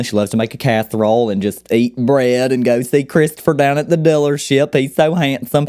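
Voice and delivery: put-on a light Southern accent for a doting mom. Southern mom gushing about handsome Christopher, light Southern accent. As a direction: gently voice a family-loving Southern mom. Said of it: "you have the Southern mom who loves her family".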